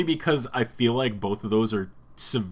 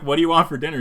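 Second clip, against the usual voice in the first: Lois; 6 semitones higher, 6 dB louder, much faster than usual. Retold or imitated. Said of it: "She's like".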